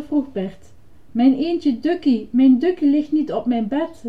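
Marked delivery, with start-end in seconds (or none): 1.1-4.0 higher, upset calling out; distressed cry. Acted. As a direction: cry out in mild panic. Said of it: "riep Ernie". (ontdaan uitroepen)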